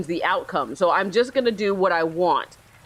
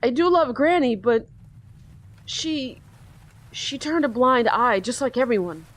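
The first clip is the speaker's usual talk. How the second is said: put-on slightly higher, hopeless young voice; despairing teen boy; 4 semitones higher than usual. Teen on the ledge telling the detective, lightly raised. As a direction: let it sound like no way out. Voices Johnny about grandma.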